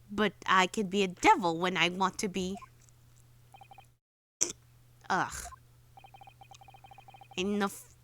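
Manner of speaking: menacing villain. Acted. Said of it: "you sound like you're gonna fucking kill me".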